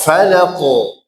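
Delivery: slow Falaqo with a heavy qaf; thick qaf. Shown as a demonstration. Teacher repeats Falaqo with the class, slow and thick.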